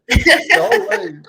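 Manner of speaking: laughing, high; words through a big laugh. Real, not acted. Laughing retelling scary bus ride.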